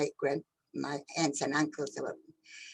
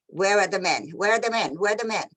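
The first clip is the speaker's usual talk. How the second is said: repeated demand, pitch pushed up a little; mild mock shout of the soldiers; retold soldiers' shouting; 4 dB louder than usual. Soldier shouting at her mother, a mild retold yell. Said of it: "they started screaming at my mother".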